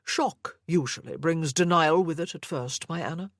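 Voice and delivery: a hint of a doting, controlling grandfather; obsessive old grandfather. Sir Lovett speaks to Anna.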